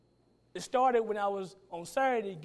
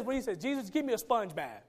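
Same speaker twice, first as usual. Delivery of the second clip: Peter overeager. Retold or imitated. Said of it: "Then Peter says".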